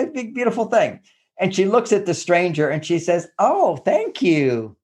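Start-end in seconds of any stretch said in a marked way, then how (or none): 3.4-4.8 slow, drawn-out "oh, thank you"; grateful wife. Retold or imitated. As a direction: stretch it out with delighted gratitude to a stranger. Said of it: "what did the tone of voice said".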